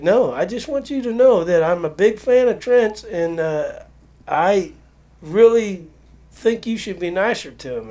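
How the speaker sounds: imitating a pushy fan who won't let it go; insistent fan. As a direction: play the clingy fan pressing her point. Insistent fan presses her point.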